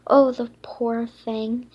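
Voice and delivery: loud pitying oh; pitying sigh of oh. Acted. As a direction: feel sorry for the unicorn. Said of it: "sympathy in story".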